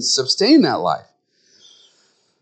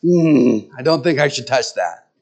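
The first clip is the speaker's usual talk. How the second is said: confused man; 2 semitones higher than usual. Retold or imitated. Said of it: "looking at the knobs going".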